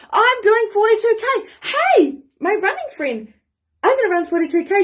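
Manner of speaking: high, loud proud yell; yelling from rooftops. Shown as a demonstration. Announcing the marathon to her running friend, a loud high yell. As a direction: shout it to the whole town. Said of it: "yell it from the rooftops".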